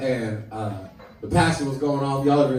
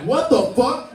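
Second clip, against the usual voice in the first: shocked crowd; 8 semitones higher, 5 dB louder than usual. Retold or imitated. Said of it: "we were all like".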